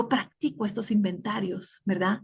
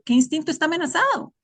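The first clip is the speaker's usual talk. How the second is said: asking herself; 8 semitones higher, faster than usual. Retold or imitated.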